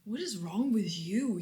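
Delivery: soft, quick, dismissive mock of father; feigned ignorance. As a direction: play dumb and brush her off, quietly and fast. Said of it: "these glasses that my father would just put on".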